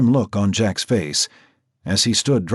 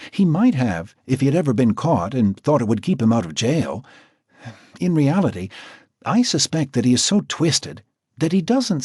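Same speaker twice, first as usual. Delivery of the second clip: higher, measured professional woman's voice; Natasha the doctor; 6 semitones higher than usual. A narrator's reading. Natasha explaining the profile to Jack, higher and measured. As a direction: speak as the composed doctor.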